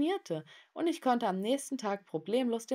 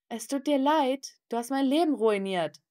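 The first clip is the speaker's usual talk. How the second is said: higher, louder outraged retort; angry accusation; 6 semitones higher, 6 dB louder than usual. Acted. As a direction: throw the apology back, indignant and raised. Acted quarrel after an apology. (wütend und empört)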